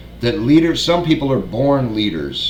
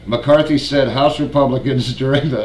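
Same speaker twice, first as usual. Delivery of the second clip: laughing while reading; 2 semitones higher than usual. Real, not acted. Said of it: "take two".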